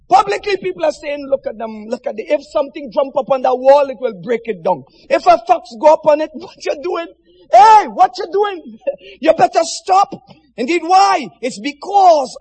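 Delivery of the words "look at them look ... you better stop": mocking taunt. Mocking public's scornful words.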